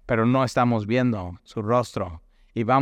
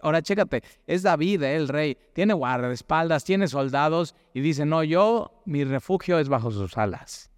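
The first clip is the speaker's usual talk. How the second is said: excited emphasis; 4 semitones higher than usual. Real, not acted. Excited point about king David.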